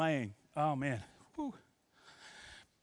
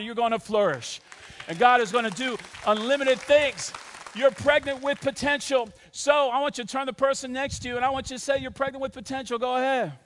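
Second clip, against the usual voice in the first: emphatic, energised sermon delivery; preaching; 5 semitones higher, 6 dB louder than usual. Acted. Pastor encouraging every church location, preaching. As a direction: press the promise onto the congregation.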